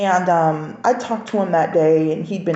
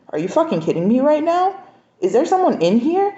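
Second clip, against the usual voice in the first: high, raised furious disbelief; angry disbelief; 9 semitones higher than usual. Retold or imitated. Wife confronting her cheating husband, raised furious disbelief. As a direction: pitch shoots up, demanding answers. Discovers someone hiding.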